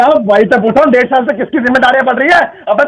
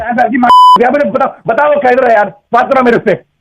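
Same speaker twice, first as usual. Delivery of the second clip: angry. Real, not acted. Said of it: "इतना गुस्सा क्यों कर रहे हो".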